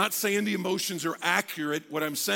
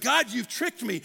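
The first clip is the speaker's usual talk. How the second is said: higher-pitched mock accusation; accusing complaint; 4 semitones higher, 3 dB louder than usual. Disappointed student complaining to God, accusing. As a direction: voice the underlying grievance to God. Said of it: "you could hear it in there".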